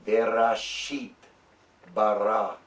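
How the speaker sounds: very slow Hebrew, one word at a time with long gaps; very slow syllable-by-syllable Hebrew; really slow. Shown as a demonstration. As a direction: stretch it out word by word. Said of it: "go really, really slow".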